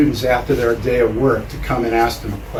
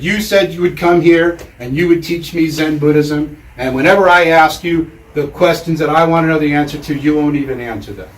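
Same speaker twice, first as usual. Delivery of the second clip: higher-pitched acted complaint, easing at the end; fed-up student; 3 semitones higher, 3 dB louder than usual. Student accusing his master of withholding answers, mildly acted exasperation. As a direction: lay out a mildly indignant accusation. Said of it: "the student had had enough".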